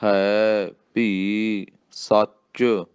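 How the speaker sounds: ਹੈ and ਭੀ separated, very slow; ਹੈ ਵੱਖਰਾ ਭੀ ਵੱਖਰਾ; ਹੈ and ਭੀ apart. Shown as a demonstration. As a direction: keep ਹੈ and ਭੀ distinct. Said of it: "ਹੈ ਵੱਖਰਾ, ਭੀ ਵੱਖਰਾ".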